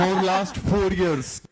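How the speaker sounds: light mock Bengali accent, quick then drawn. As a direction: poke fun in a half-hearted Bengali accent. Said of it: "that is my Bengali accent".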